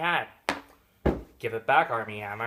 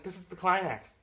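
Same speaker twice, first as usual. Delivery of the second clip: higher, louder excited realisation; raised, excited voice; renewed anticipation; 7 semitones higher, 5 dB louder than usual. Retold or imitated. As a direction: announce the big moment eagerly. Second, stronger false climax.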